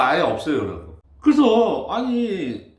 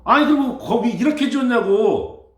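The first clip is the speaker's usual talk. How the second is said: mock angry retort; 7 semitones higher, 5 dB louder than usual. Quoting the couple's angry complaint.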